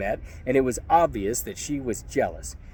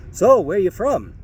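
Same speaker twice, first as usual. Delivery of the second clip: slow, higher, needling challenge; menacing question; 7 semitones higher, 4 dB louder than usual. Retold or imitated. Thug picking a fight with the narrator, slow and menacing. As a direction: drag it out to provoke. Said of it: "he asked".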